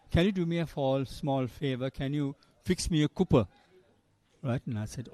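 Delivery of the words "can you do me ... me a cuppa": lightly imitated Yorkshire request, "cuppa" as "cooper"; Geoffrey Boycott's Yorkshire accent. Famous commentator asking a colleague for tea, light Yorkshire accent. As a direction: ask the favour in mild mock Yorkshire. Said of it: "in his nice Yorkshire accent".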